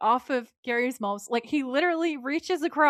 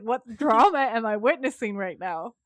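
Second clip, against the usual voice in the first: louder, animated mock shock; gleefully scandalised; 5 dB louder than usual. Gary's sister watching the breakfast fight, scandalised delight. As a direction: relish the drama, punching the key word. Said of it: "gasping for air at this point".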